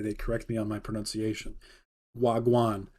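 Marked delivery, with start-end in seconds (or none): 2.2-2.9 Jamaican-accented slang greeting; Jamaican patois. Shown as a demonstration. Demonstrating slang the Jamaican guys taught him, Jamaican accent. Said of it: "You gotta say it that way".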